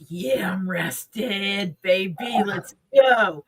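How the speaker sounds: la mente che si vanta: sussurro spavaldo che finisce forte; cocky mind voice. Retold or imitated. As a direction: sussurra spavaldo, poi chiudi con slancio. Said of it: "So my mind is like".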